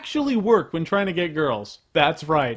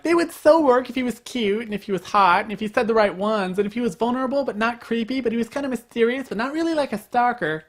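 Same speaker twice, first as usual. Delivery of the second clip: put-on high, gushing valley girl; mocking girly voice; 5 semitones higher than usual. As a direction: mimic a gushy girl listing demands. Girls' conditions, mocking girly voice.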